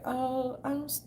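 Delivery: soft, breathy-free meek mock voice; mock passive. Imitating passive people in their videos, meek. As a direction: play the passive video talker. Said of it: "just be talking like this".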